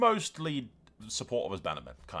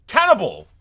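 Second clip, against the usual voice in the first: sudden furious yell, much louder and higher; angry shout; 10 semitones higher, 15 dB louder than usual. Real, not acted. Gamer yelling as his heir is killed, furious shout. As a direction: bellow the name in outrage. Enemy kills his eldest son.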